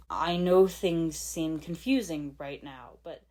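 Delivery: slow, would-be soothing; attempted gentle tone. Father trying to reassure confused Lloyd, slow and gentle. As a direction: try to calm him slowly. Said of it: "in what he must have thought was a gentle tone".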